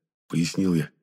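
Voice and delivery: plain reading voice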